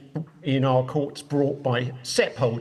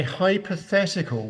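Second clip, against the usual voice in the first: hypothetical picked out with emphasis; stress on hypothetical; 5 semitones higher than usual. Real, not acted. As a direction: lean deliberately on the word hypothetical. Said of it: "I emphasise the word hypothetical".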